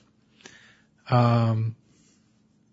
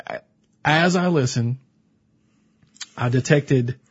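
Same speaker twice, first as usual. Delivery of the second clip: usual speaking voice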